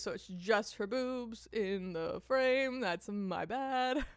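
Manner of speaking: slow, stretched-out words; drawn-out admission. Real, not acted. Streamer admitting a blunder with the frame, drawn out. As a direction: drag each word out. Owns up to covering face.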